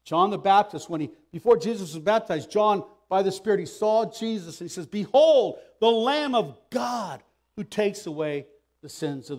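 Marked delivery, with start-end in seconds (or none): 4.9-9.4 raised, ringing announcement that eases off; loud proclamation. Acted. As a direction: herald it loudly to a crowd. Acts John announcing the Lamb of God.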